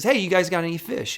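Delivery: calling out. Retold or imitated. Jesus calls to the fishermen from the seashore, a mild yell. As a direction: call across the water, lightly imitated. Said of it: "he kinda yells out".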